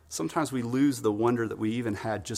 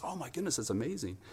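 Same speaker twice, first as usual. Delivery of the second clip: soft, raised-pitch amazement; wonder; 3 semitones higher, 7 dB quieter than usual. Acted. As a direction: breathe out quiet awe. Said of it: "you have wonder there".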